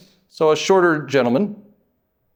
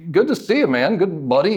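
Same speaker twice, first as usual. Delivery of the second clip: tag; 3 semitones higher than usual. Acted. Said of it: "A friendly person walking by".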